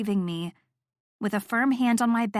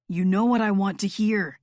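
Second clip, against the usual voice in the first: chiding. A narrator's reading. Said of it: "he chided".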